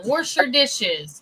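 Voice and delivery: WASH with an R slipped in, 'warsh'; mom's pronunciation. Retold or imitated. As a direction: imitate mom saying WASH as 'worsh'. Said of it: "My mom is the worst".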